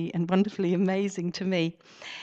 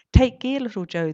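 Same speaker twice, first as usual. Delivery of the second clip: higher, louder call up to the mast; shout up; 4 semitones higher, 7 dB louder than usual. Acted. Pirates calling up to Joe in the crow's nest, loud caring shout. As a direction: shout up to someone high above. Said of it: "the pirates would often shout up".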